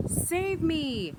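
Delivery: high, loud cry for help; yelled. Acted. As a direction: yell it up the stairs. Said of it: "he yelled up the stairs".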